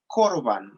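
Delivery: "corbán" with stress on the final A, cor-BÁN; "corbán": two syllables, the second one stressed. Shown as a demonstration. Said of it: "acento en la A".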